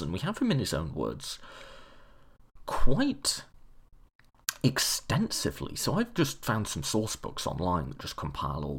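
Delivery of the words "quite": quite shot up high and loud; one word flung far higher and louder; emphatic quite. Real, not acted. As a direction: burst out on quite. Leaps on a single word.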